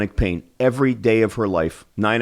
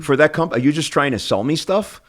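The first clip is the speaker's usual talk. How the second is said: lightly imitated dentist, pitched up in irritation; upset dentist; 5 semitones higher than usual. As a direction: retell his annoyed challenge, higher. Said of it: "got upset".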